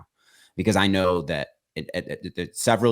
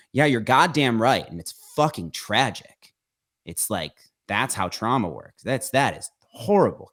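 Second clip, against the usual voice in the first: heated, impassioned outburst; a touch of real anger breaking through; 4 semitones higher than usual. Real, not acted. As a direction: let real anger creep into the words. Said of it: "it sounds like there's anger in my voice".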